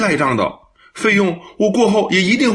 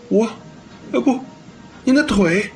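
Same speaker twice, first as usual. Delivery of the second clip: halting fragments with pauses; incoherent, conflicted; 4 semitones higher, faster than usual. Acted. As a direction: fumble for words, worried for her. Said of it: "又有点语无伦次". (纠结得语无伦次)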